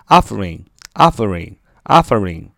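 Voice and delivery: "offering" with the OFF stressed; stress on first syllable. Shown as a demonstration. Teacher showing where the accent falls, "offering" stressed on OFF. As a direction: hit OFF in "offering", let the rest fall. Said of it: "重音在啊那儿啊".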